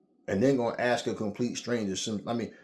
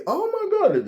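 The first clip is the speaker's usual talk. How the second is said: squealed oh my God, much higher and louder; shrieking girls; 10 dB louder, slower than usual. Retold or imitated. Girls squealing at the stranger's refusal, high and loud.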